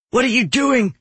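a touch of angry alarm; indignant demand. A narrator's reading. Executioner confronts man who ran into him, indignant demand.

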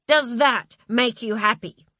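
loud angry shouting. Acted. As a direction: hurl it at her furiously. Husband shouting at wife.

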